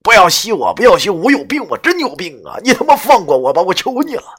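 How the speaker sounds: loud frantic begging yell; yelling plea for mercy; desperate shout. Acted. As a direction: shout it while struggling. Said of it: "一边挣扎一边喊道".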